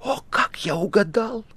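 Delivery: awestruck, intense stage whisper; prayerful whisper. A narrator's reading. Guest learns he guessed the tale, prayerful whisper. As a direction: breathe it out like a fervent prayer. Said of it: "молитвенно сложил руки и прошептал".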